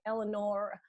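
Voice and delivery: Eleanor with a hard, American final R; over-articulated R at the end of Eleanor. Shown as a demonstration. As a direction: say Eleanor carefully, sounding the R. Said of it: "really articulate my R".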